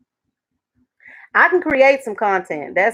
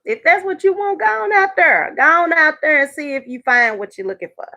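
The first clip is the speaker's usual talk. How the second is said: high, breezy go on out there; wife waving off the husband; dismissive send-off; 4 semitones higher than usual. Retold or imitated. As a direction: shoo him off. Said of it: "I just let him go".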